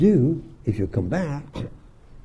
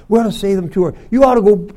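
usual speaking voice

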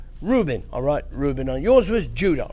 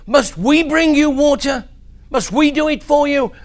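loud, raised, exasperated outburst; angry; 5 semitones higher, 5 dB louder than usual. Acted. Moses angrily scolding Israel before striking the rock. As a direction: bark the rebuke at them. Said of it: "He was angry".

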